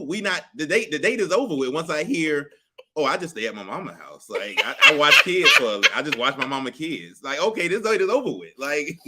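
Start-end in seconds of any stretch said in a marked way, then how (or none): 3.0-7.2 laughing. Pretend. Voicing a date's answer.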